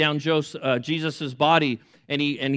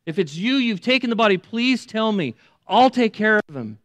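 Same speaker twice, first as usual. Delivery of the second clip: pleading Mary; 5 semitones higher, 3 dB louder than usual. Retold or imitated. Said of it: "she replied".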